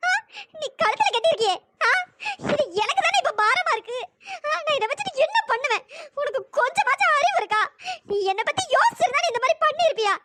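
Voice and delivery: upset, accusing questions; hurt reproach. Acted. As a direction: confront him through the hurt. Hurt woman rebukes the apologising man.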